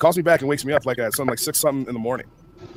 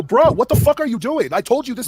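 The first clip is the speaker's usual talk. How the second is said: retold exasperated protest; 9 semitones higher, 6 dB louder than usual. Confronting the friend who changed plans, retold exasperation. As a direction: re-enact an incredulous complaint to a friend.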